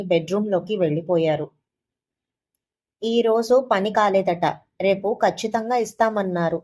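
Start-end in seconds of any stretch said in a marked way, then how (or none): 3.0-6.6 measured, slow explanation; slowly, carefully break the news. Retold or imitated. Daughter-in-law tells the lender the money comes tomorrow, slowly and carefully. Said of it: "నిదానంగా చెప్పాను".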